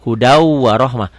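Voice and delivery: "Hudau warohmah" slow, the n gliding into the w; slow demo reading. Shown as a demonstration. Teacher models the merged reading. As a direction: read it slowly with a doubled w. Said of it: "ada tasjidnya".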